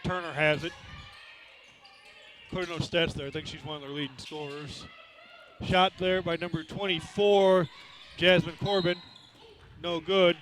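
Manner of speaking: brisk live game call; play-by-play. Real, not acted. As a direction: call the action as it happens.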